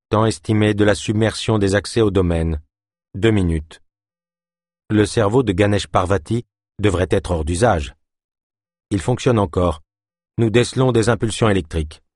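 even, flat computer voice, announcing; cold machine voice. Acted. Computer voice in the story.

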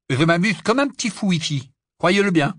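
high, loud sarcastic griping; sarcastic complaint. Acted. Ron grumbles about life in the tent, sarcastic. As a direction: lay the sarcasm on loudly.

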